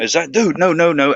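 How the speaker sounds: no no no, wait, I got it wrong; sudden realisation. Real, not acted. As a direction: correct yourself in a rush.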